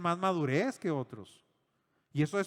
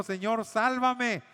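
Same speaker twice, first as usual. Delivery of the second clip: a slow, hammed-up plea, a bit higher and louder; mock cry for help; 5 semitones higher, 3 dB louder, slower than usual. Pedro, sinking in the sea, cries to the Lord in a mock plea. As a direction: cry out Señor, sálvame like a sinking man, half-acted. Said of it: "empezó a gritarle al Señor".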